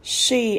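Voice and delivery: "She" with a clear rounded sh; rounded-lip sh. Shown as a demonstration. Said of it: "S H tròn miệng này". (đọc "She" tròn miệng)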